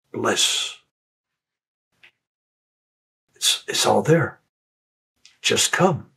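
understated soft, loving call; soft soothing voice. Retold or imitated. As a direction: coax him home tenderly, like a loving mother. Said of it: "soft, feminine, powerful voice".

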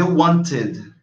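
"wanted" in two syllables, wan-tid. Shown as a demonstration. Teacher contrasts the case, "wanted" said wan-tid. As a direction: sound out the final syllable of "wanted". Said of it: "como se fosse um I D".

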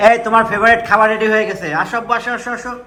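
high, sing-song call to come eat. Real, not acted. Calling child to come eat.

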